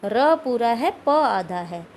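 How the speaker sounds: र पूरा है said loud, stressing the full र; stressed contrast. Shown as a demonstration. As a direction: punch र पूरा है against प आधा है. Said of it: "प पूरा नहीं है". (र पूरा पर ज़ोर देकर)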